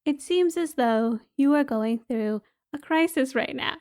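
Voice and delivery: a light take on a calm recorded app voice; meditation app voice. Retold or imitated. Recalling the Headspace app during her crisis, lightly mocked soothing robot voice. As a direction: softly mimic the app's soothing robot voice. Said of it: "I hear this voice go".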